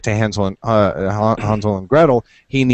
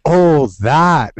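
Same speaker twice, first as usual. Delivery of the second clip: mock fairy shrug. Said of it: "and they're like".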